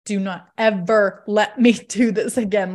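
laughing, pleading with her husband; laughing plea. Retold or imitated. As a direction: beg half-laughing never to do it again. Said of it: "I was like".

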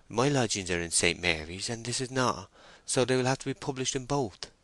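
lightly voiced female character, explaining; earnest young woman.

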